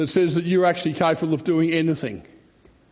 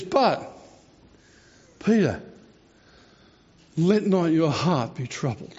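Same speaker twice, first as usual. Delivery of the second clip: tender comfort. Retold or imitated. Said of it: "He says".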